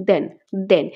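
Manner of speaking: দেন said as English then, voiced th; দেন with a buzzing voiced th; demo of then. Shown as a demonstration. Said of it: "কিন্তু pronunciation কীভাবে হচ্ছে?".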